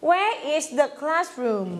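Where is the classroom said slowly, falling at the end; slow model sentence. Shown as a demonstration. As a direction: say it slowly so students can copy. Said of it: "ยังพูดไม่จบ".

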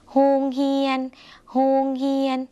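โฮงเฮียน in Lao, high and clear; Lao word read out. Shown as a demonstration. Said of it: "คำนี้นะคะ".

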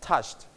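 "touched" ending in a light t; one syllable "touched", quiet t after ch; softened final t. Shown as a demonstration. Teacher models for the class, "touched" with soft t. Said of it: "and volume down".

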